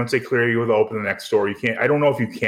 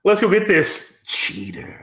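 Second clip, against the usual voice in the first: mock polite thug; 5 semitones higher, slower than usual. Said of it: "You use a word that's not as nice".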